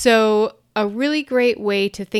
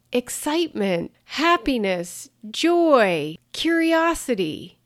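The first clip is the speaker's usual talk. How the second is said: more energy; 3 semitones higher than usual. Shown as a demonstration. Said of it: "even when I say them with my voice, I have more energy".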